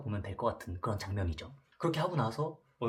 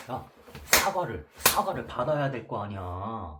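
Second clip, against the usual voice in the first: angry demand; 5 dB louder, slower than usual. Retold or imitated. Bully yells in hallway.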